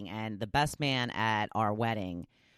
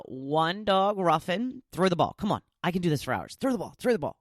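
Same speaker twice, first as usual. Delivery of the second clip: higher eager pestering dog; 5 semitones higher than usual. Pretend. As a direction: beg to play, nonstop. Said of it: "Linda says".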